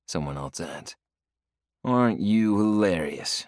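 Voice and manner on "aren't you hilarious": drolly. Acted. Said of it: "I droll".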